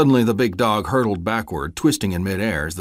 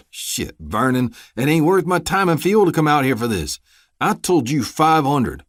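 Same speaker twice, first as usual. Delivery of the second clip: raised, rough Southern threat; menacing deputy; 8 semitones higher, 6 dB louder than usual. Acted. Deputy shaking down a debtor, menacing and loud. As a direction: lean on him like a crooked lawman. Deputy Orban extorting Vernon.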